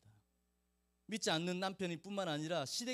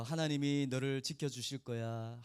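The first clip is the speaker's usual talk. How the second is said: tender blessing; 6 semitones lower than usual. Retold or imitated. Blessing whispered to the child.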